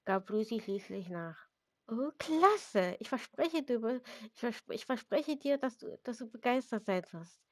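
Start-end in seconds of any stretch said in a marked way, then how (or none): 1.9-7.4 higher and louder, tripping over the words; excited. Acted. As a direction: gush with excitement. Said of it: "sagte Ginny begeistert". (begeistert und aufgeregt)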